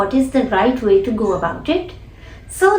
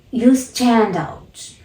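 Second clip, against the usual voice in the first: "You stand out" slow and deliberate; mimicked emphasis; much slower than usual. Shown as a demonstration. Teacher mimicking Oprah's emphatic line, slowly. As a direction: spell out each word with weight. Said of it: "I'm trying to mimic even the emotion".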